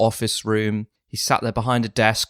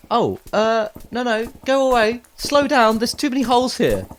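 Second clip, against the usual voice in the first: pitched-up alarmed yelling; yelling at a horse; 12 semitones higher than usual. Acted. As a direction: shout the horse away in a panic. Shouting at a running horse.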